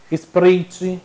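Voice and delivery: Sprite said as "Spritchi", with an ee sound; popular mispronunciation. Retold or imitated. Teacher mimics people's soda names, Sprite mispronounced with ee. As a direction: imitate folk saying Sprite as "Spritchi". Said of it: "o povo chamando".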